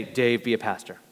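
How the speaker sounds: a touch of a booming God voice; mock voice of God. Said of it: "I never heard God say".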